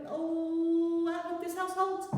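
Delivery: high, sing-song little pig voice; a small pig fretting over its house; worried little pig. Acted. Little pig hoping the straw house holds, sing-song.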